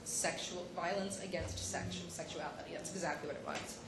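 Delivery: hushed, near-whispered through tears; barely holding it together; soft crying voice; tearful. Real, not acted. Tearful over disturbing billboards.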